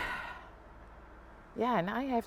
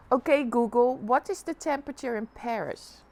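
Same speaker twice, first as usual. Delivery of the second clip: repeating to voice assistant; 6 dB louder than usual. Real, not acted.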